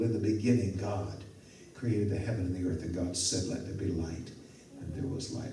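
hushed, dropping low and soft; softly savoring each word of Genesis; reverent reading. Shown as a demonstration. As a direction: read the verse with quiet awe. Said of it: "It's so believable".

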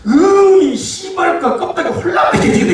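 hammed-up Jeolla bather yelling from the scalding tub; 전라도 사투리. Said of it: "전라도 사람이 발을 푹 껴빼서 전라도 말로". (걸쭉하게 욕하는 전라도 사투리)

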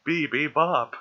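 high perky robot beeps; toy robot voice. Pretend. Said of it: "robot talk".

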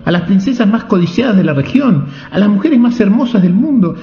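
the king can't believe the marriage; shocked disbelief. A narrator's reading. King stunned by marriage news. (incredulidad indignada del rey, muy agudo)

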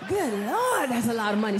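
comic outraged skit voice; Chris Rock character. Retold or imitated. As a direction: do the Chris Rock bit, aghast at the price. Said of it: "Chris Rock character".

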